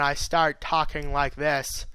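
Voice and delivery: slow southern drawl; subtle, slowed southern accent. Shown as a demonstration. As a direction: draw the words out, southern style. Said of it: "a sort of southern drawl".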